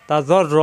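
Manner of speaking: জ্বর র with a thick, rounded r; heavy র. Shown as a demonstration. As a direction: roll the doubled র, full and heavy. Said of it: "র মোটা হবে". (র মোটা করে জ্বর র)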